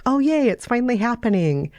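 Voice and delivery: usual speaking voice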